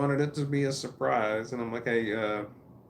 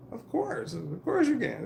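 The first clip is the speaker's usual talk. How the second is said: high-pitched, mildly hammed-up "naturally"; retold eager yes, voice jumping up; emphatic assurance; 13 semitones higher, slower than usual. Acts out emphatic reply to daughter.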